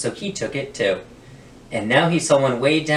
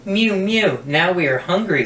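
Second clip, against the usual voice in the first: lightly higher mewing cats, pleading; hungry cats; 7 semitones higher than usual. Acted. Hungry cats asking the old man, higher mewing. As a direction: beg for food like little kittens. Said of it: "said the hundreds of cats".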